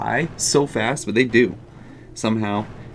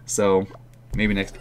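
ordinary delivery

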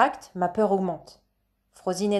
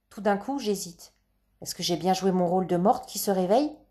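ordinary delivery, nothing marked

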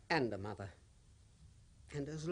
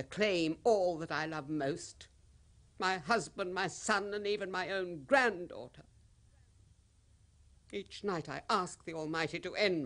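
rising anguish; 4 semitones higher, 5 dB louder than usual. Acted. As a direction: build the grief as you name them. Widow lists her dead.

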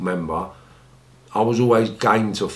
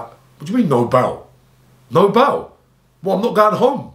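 high-pitched, acted-out outrage at the news; tearful disbelief; 9 semitones higher, 4 dB louder than usual. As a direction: imitate a distraught teenager refusing to accept it. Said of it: "I bawled".

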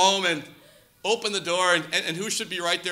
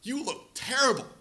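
concerned friend; 8 dB quieter than usual. Retold or imitated. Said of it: "pulls me aside and goes".

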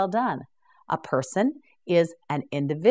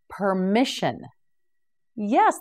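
ordinary talk

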